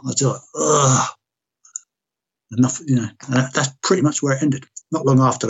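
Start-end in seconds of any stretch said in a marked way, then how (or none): 0.5-1.1 retold exasperated groan.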